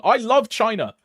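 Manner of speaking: hammed-up devotion at full volume; mock enthusiastic shouting. Streamer declaring love for China for points, mock enthusiastic shout.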